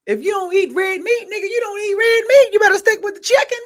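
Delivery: high, loud words breaking into laughter; laughing. Real, not acted. Joking about red meat while laughing. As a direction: laugh through the punchline.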